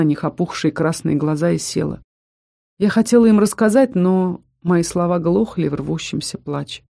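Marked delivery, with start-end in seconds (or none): none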